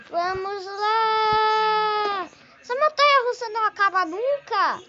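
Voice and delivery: loud thrilled ride shouts; on a roller coaster. Real, not acted. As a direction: yell through the ride.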